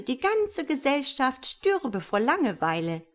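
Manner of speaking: hint of a fussy society magpie; gossipy magpie. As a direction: rattle off your social calendar like a busy gossip. Gossipy magpie excuses herself.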